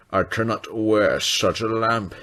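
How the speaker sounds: slow, loud, proud refusal; haughty refusal. Acted. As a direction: refuse slowly and grandly. Grouchy Gordon refuses.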